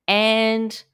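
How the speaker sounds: a hint of a small kid trailing off; kid's matter-of-fact finish. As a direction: lightly imitate a child wrapping up. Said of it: "it's that kid thing where he's like".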